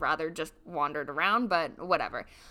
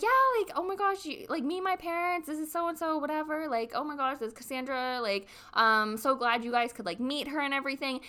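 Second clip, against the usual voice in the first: high, quick, eager imitation of him, a bit higher; mocking the boyfriend; 5 semitones higher than usual. Boyfriend introducing her to his parents, in a lightly mocked eager voice. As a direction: make him sound giddy and over-eager. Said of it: "He's like".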